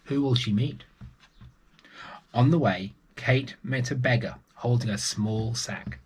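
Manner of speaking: put-on lively read-aloud voice for children; storybook narration. A narrator's reading. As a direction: tell it like a bedtime story. Storyteller reading a picture book.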